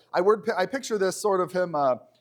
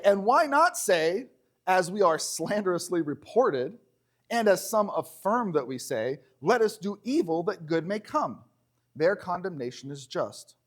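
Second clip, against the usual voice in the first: measured, formal Bible reading; scripture reading. Acted. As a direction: read the verse out to the congregation. Reads the verse aloud.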